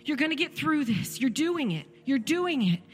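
tender, insistent comfort, lifting on "okay"; reassuring Father. Retold or imitated. God holding His suffering child, voiced reassuring comfort. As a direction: voice a loving father's firm reassurance. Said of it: "He is saying".

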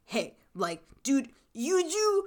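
mock-pump up a sad buddy, lightly; bro mode. Friend urging his buddy to forget her, mock bro voice. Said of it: "full-on bro mode".

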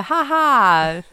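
deliberate spoken "ha ha"; demonstrated laugh. Shown as a demonstration. Host shows what kind of laugh the joke gets, mock laughing. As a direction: fake a slow, spelt-out laugh. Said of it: "you know, kind of laugh".

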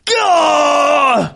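high loud pained "gah"; anguished cry. Retold or imitated. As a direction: cry out like it physically hurts to hear. Retold reaction to girlfriend's "fudge.

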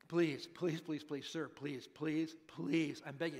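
mildly acted, insistent pleading; repeated begging. Father begging Jesus over and over, mildly acted pleading. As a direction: keep begging, one plea after another. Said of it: "That's what it means".

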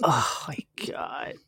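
breathless whisper of disgust. Real, not acted. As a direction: whisper it in disbelief. Reacting to clip.

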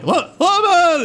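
high-pitched mock yell; Han Solo. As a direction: call out in a high, urgent impression. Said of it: "the Han Solo where he's like".

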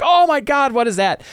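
high, loud gasp of alarm; shocked. Retold or imitated. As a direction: recoil as the body lands. Manticore torso lands before them.

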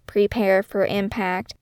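slow, lightly voiced ship computer; a hint of a robotic alarm announcement; mock spaceship voice. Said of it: "in a sort of mock spaceship voice".

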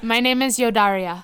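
put-on joking, lightly Spanish-accented introduction; mock a put-on Spanish accent; fake Spanish accent. Riffing on celebrity wife's name, mock Spanish accent. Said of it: "got that fake Spanish accent".

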